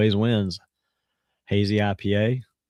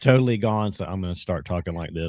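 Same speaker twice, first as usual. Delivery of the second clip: hoarse, lost voice; speaking through a worn-out voice. Real, not acted. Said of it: "My, my voice is totally gone".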